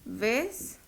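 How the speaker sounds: "Avestruz" softly split into three syllables, long gaps. Shown as a demonstration. Teacher separates the word for students, "Avestruz" syllable by syllable. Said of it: "Separémosla".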